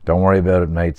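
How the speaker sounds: lightly voiced Dublin bus driver; easygoing line in a Dublin accent; strong Dublin accent. Driver waving off Peter's fare, Dublin accent. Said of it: "with the strong Dublin accent".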